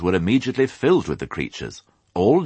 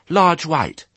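piglet voice; 12 semitones higher, 5 dB louder than usual. Acted. Piglet answers sheep.

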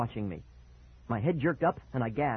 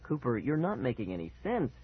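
low and calm. Acted. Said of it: "keeping his voice low and calm".

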